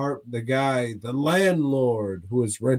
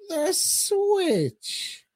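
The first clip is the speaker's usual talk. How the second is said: title announcement. Pretend. Host announces the episode title.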